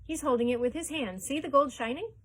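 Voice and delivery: high, loud eager crowd voice; excited. A narrator's reading. A crowd member points out the shining gold excitedly. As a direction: point out the shine, thrilled.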